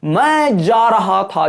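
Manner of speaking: "मैं जा रहा था" very drawn out, "मैं" rising and falling; strong, high-pitch demo. Shown as a demonstration. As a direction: stretch "मैं जा रहा था" slowly and firmly. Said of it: "जोर से वाइब्रेट किया". ("मैं जा रहा था" ज़ोर से, धीरे-धीरे खींचकर)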